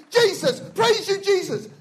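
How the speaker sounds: high, slow, full-voiced shout of Jesus' name; shouting praise. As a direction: roar the praise as if running flat out.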